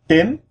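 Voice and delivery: tím lifted sharply upward at the end; rising tone. Shown as a demonstration. Teaching learners the word for purple, tím in a rising tone. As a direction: raise your voice through tím. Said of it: "we raise our voice".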